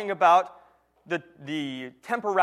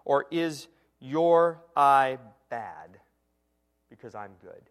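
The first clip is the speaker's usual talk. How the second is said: slow emphasis; 5 semitones lower, slower than usual. Shown as a demonstration. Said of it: "that could also be translated".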